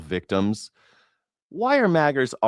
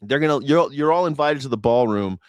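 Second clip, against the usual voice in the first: lightly voiced radio host introducing the countdown; a hint of an old-school DJ announcing the show; Casey Kasem. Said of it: "this is Casey Kasem".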